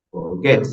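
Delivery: "forget" leaning on GET; stress on last syllable. Shown as a demonstration. Teacher repeating the example for students, "forget" stressed on GET. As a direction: put the force on the end syllable of "forget". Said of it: "en la última".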